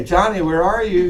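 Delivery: put-on easy, lightly lilting call to a child; friendly call. Shown as a demonstration. Parent calling Johnny with a treat, friendly. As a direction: call the child as if nothing is wrong.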